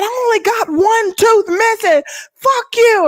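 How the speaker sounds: high, slow, lightly voiced angry man; a hint of an offended guy snapping back; mock angry man. Retelling the man cursing back at her in a mock voice. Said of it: "He said".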